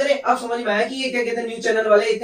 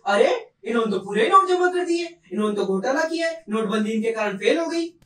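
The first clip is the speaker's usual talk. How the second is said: mock shock. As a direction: imitate scandalised news people. Mimics media accusing bankers.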